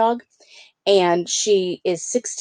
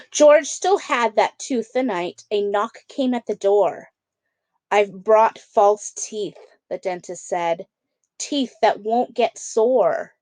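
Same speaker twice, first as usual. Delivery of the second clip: lively storybook read-aloud; children's book narration. A narrator's reading. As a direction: read it like bedtime story time. Reads picture book to kids.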